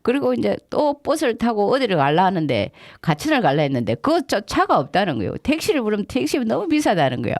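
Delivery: retold agitation, pitched high; agitated complaint. Tourist complains about missing buses and costly taxis, agitated. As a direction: voice a worked-up traveller's grievance. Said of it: "막 이러면서 막 흥분해서".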